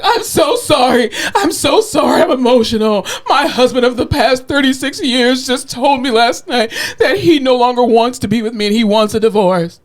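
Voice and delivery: imitating a crying woman in the elevator; mock sobbing. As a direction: retell a stranger's breakdown, hammed-up. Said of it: "This lady just starts bawling".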